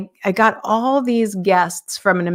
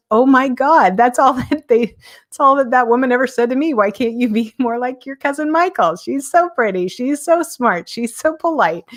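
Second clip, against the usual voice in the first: higher, laughing through the retold words; laughing cousin; 5 semitones higher than usual. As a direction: cousin laughs, recalling the same line: higher, amused, laughing. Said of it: "she goes".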